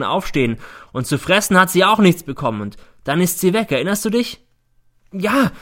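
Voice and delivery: high, loud relentless accusation; accusing son. A narrator's reading. Son confronting his mother in court about the maid. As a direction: force her to remember.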